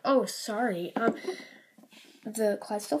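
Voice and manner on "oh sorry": mock replay of own apology; mimicked apology. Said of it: "I'm like".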